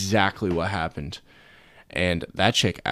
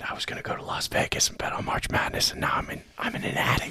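rueful whisper; faster than usual. Pretend. Lamenting quarantine.

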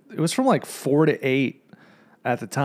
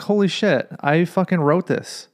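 higher, stunned outburst; shocked disbelief; 5 semitones higher than usual. Retold or imitated. Reading his own article on another site, shocked. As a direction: it hits you that it's your own writing.

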